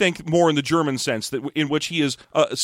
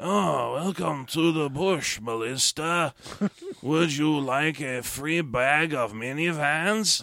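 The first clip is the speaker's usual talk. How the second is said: slow, garbled, unintelligible villain voice; 6 dB quieter than usual. Retelling a film villain's lines: imitating an unintelligible villain. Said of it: "he's completely unintelligible".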